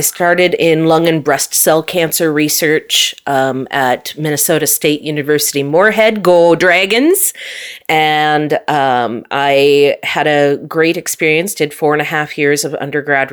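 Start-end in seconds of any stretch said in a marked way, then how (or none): 6.2-7.3 slow, drawn-out rah-rah cheer; root for the alma mater, stretching it out; playful team cheer. Pretend.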